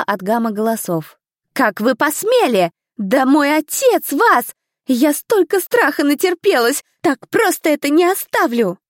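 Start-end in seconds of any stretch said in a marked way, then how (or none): 1.5-8.8 higher, louder spoiled indignation, slow at first; a young lady outraged at the examiners; indignant outburst. A narrator's reading. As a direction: rage like an offended noble girl. Indignant girl after the fall.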